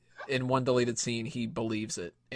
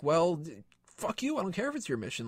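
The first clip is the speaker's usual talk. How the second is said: retold angry outburst; 5 semitones higher than usual. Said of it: "gets all pissed off".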